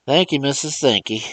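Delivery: put-on high, loud old man's dialect voice; old servant astonished at the talking box; amazed old Uncle Remus. Uncle Remus asks Mars John through the phone, amazed.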